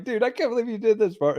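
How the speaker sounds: high-pitched, rushed mock protest; acted-out indignant complaint; retold disbelief. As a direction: protest incredulously to the prankster. Re-enacts charging at the prankster.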